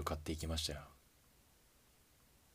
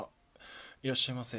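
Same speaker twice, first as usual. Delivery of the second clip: bright, loud, higher "welcome" to a customer; cheerful shop greeting; 7 semitones higher, 5 dB louder, much faster than usual. Acted. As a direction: call it out like a convenience store clerk. Late night shop greeting customer. (元気な接客の声)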